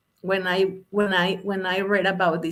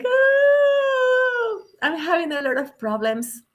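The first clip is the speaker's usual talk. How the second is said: crying; 4 semitones higher than usual. Retold or imitated. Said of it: "And Jim started crying".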